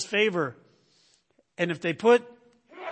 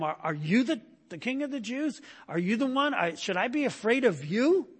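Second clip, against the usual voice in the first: disbelief; 5 semitones higher than usual. Shown as a demonstration. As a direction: voice pitched higher, incredulous and scoffing. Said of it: "should really be read with a tone of disbelief".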